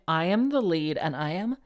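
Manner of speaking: smug lead's hammy boast; mock self-praise. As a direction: puff yourself up, slowly. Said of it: "And then to be like".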